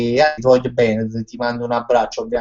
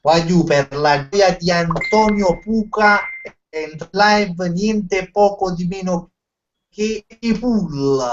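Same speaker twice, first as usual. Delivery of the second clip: announcer; 5 semitones higher, slower than usual. Pretend. Introducing a guest on stream.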